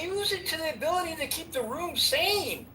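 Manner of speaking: exasperated rant. Real, not acted. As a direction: lay into the moderator, heated. Angry at the moderator, ranting.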